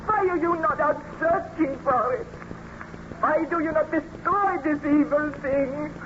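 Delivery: impassioned demands, rising in pitch; distressed reproach. Acted. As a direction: press him with anguished, accusing questions. Elizabeth pleads that the monster die.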